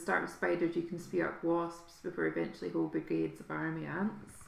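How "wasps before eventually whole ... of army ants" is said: ordinary talk, nothing marked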